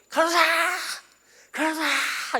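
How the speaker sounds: high, loud shout for the nurse; desperate call for the nurse; patient calling out. Retold or imitated. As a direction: yell down the ward like a bedridden patient. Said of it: "이 불러요".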